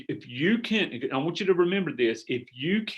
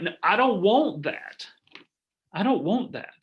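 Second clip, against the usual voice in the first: mock distressed client; 5 semitones higher, 3 dB louder, slower than usual. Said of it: "they would go crazy".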